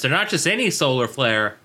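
spiralling word-association rant; manic stream-of-consciousness ramble. Acted. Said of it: "what it felt like to watch this episode".

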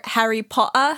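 mock-British "Harry Potter" with dropped R; fake British accent. Friend teasing about pronunciation, fake British accent. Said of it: "doing a fake British accent".

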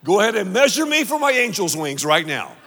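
lightly voiced proud churchgoer; imagined boastful person. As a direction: play the self-righteous boaster lightly. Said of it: "never heard someone say".

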